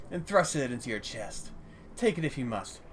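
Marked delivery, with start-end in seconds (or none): 2.0-2.8 understated bitter dismissal; wounded old dealer, lightly played; stern resentment. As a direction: send them off with restrained indignation. Robbed dealer tells player to leave.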